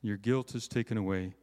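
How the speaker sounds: scripture reading. Acted. Reads Isaiah six aloud.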